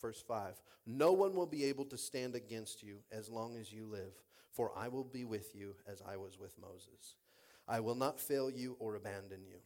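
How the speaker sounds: low, measured Bible reading; soft, deliberate pulpit reading; scripture reading. Acted. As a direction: read the verse solemnly to a congregation. Reads scripture aloud to congregation.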